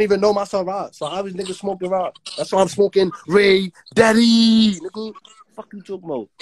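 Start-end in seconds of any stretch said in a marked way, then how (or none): 2.5-4.8 slow braggy holler; drawn-out shout. Real, not acted. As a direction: stretch each word out, calling to the live chat. Repeats the boast on live.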